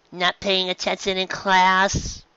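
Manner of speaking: lightly voiced mother, slow and concerned; a worried mother; maternal concern. A narrator's reading. Mother questioning her daughter, slow and concerned. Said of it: "her voice full of maternal concern".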